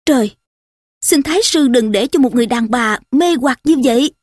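mildly urgent entreaty; a touch of exasperated begging; pleading. Acted. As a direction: implore a superior, with restraint. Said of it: "Nho chắp tay van lơn".

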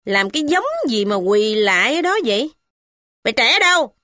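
young wife mocking the kneeling worker; biting sarcasm. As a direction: needle him with false courtesy. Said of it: "mợ Hai nói gai gắt".

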